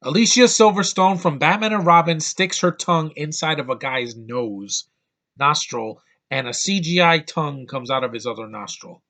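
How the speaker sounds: loud, incredulous second telling for the viewers. Shown as a demonstration. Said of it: "I'm gonna repeat that".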